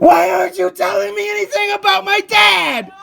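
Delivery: high, furious demand for an answer; real angry shout; yelling. Real, not acted. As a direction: yell it straight at them, exasperated. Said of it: "you keep yelling at me".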